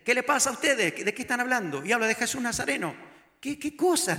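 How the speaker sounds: playing distracted. Jesus to the Emmaus disciples, playing lightly distracted. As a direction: ask as if you know nothing. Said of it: "Como distraído".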